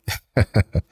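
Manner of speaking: short mocking chuckle; scoffing laugh. Real, not acted. Vlogger mocking Nike's hunt for profit margins, scoffing laugh. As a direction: laugh it off in scorn.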